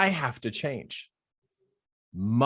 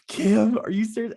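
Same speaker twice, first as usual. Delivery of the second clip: mock disbelief; 9 semitones higher, 3 dB louder than usual. Disbelief at yet another interruption.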